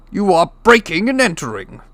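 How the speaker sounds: high, loud outraged protest; indignant squawk. Acted. Uncle Vernon accuses the giant, shrill and outraged.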